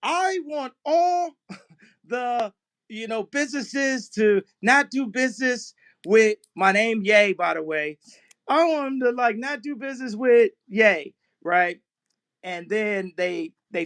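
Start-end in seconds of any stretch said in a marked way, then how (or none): 0.0-11.1 a hint of a scheming agent giving orders; playing Ari Emanuel. Ye plays Ari Emanuel ordering a boycott, lightly voiced. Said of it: "here I am. I'm Ari Emanuel".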